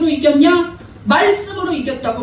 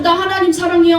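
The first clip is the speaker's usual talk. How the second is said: higher, louder, sing-song mock of a churchgoer's boast; mock pious claim; 5 semitones higher, 4 dB louder than usual. Preacher mocking a hypocritical believer, higher and louder. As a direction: parody the empty pious "사랑해요". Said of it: "하면서 말씀을 알려줄 때 거부하고".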